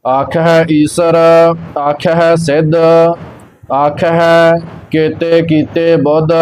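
slow, measured sacred recitation; scripture recitation. Acted. Teacher reciting Gurbani for learners, slow measured chant-like reading. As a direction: recite evenly, drawing out the line endings.

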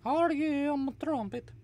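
very high, loud seahorse voice; seahorse accent. Shown as a demonstration. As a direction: show off a high-pitched, cutesy seahorse accent. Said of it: "It goes like this".

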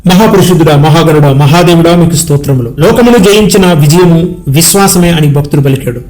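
earnest spoken prayer, addressed to God in rolling phrases; congregational prayer. Real, not acted. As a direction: intercede for the congregation, list after list.

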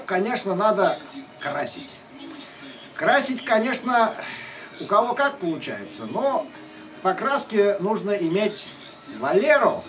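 ordinary talk, nothing marked

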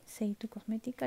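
soft, voiceless repeat of the name; whispered. Real, not acted. Vlogger repeats the brand to viewers, whispered. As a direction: whisper the brand name under her breath.

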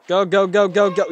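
loud, high rapid-fire urging; urgent shouting. Real, not acted. Gamer racing to the truck from the monster, urgent loud urging. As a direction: urge yourself on in a rush.

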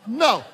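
firm, simple "No." said as a lesson example; demonstrated no. Shown as a demonstration. Preacher demonstrating to the congregation a firm no. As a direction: show them how to say "No".

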